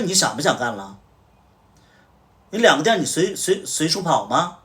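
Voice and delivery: retold boss yelling at an employee; angry scolding. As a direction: threaten his job while shouting. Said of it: "我就直接骂了".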